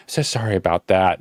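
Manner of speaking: low, mildly acted sympathy; sympathetic apology. Desk staff to stranded traveler, mild sympathetic apology. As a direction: imitate someone who feels bad for you. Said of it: "they felt really bad".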